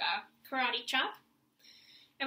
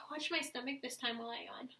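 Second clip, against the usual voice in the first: whisper; 5 dB quieter than usual. Real, not acted. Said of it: "teacher demonstrating yawn".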